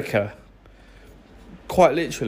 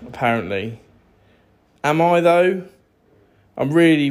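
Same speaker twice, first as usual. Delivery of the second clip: mock boast. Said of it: "how ridiculous it sounds".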